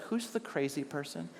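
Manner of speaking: a gentle divine nudge, lightly laughing; God's whisper. Retold or imitated. God quietly questioning the pastor, soft amused whisper. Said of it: "whisper from God".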